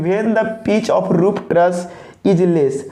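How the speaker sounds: very slow, every word drawn out for copying; dictation pace. Shown as a demonstration. Teacher dictating the definition for students to copy, very slowly. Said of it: "copy भी करेंगे pause करके".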